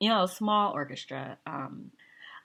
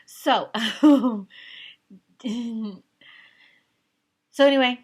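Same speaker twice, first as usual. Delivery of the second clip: laughing; 7 semitones higher, 11 dB louder than usual. Real, not acted. Laughing recovery.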